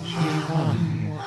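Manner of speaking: hypnotic trance voice. Acted. Erotic hypnosis session.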